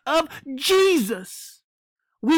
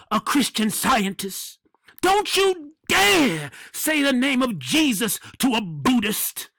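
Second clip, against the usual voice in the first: mocking the Pope. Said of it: "he's saying".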